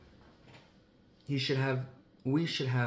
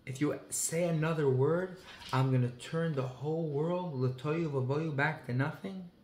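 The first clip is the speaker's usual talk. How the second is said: a touch of raised warning, said a little higher; lightly voiced stern divine threat; half-hearted stern warning from above; mild mock threat; 3 semitones higher, slower than usual. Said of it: "is not angry and screaming back at them".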